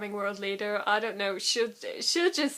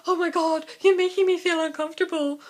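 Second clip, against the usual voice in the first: uncomfortable drama partner; 6 semitones higher, 7 dB louder than usual. Retold or imitated. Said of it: "he was just like".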